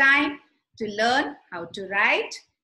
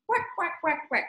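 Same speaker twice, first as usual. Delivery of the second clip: duck quacking; 4 semitones higher than usual. Acted. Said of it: "so the duck is quacking".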